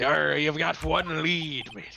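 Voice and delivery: exaggerated, put-on pirate voice. Retrying a game character's line with more effort: exaggerated pirate voice. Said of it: "I gotta yarg more into it".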